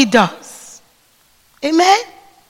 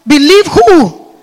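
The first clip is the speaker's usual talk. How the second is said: louder call and response; 2 semitones higher, 6 dB louder, slower than usual. Real, not acted. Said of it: "I like responses".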